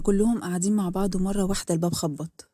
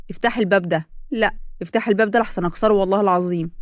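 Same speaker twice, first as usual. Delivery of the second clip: loud furious demand at a locked door; angry shouting; 5 dB louder than usual. Acted. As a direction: threaten to break the door down, loud. Lais pounding on her door. (صراخ غاضب عالي)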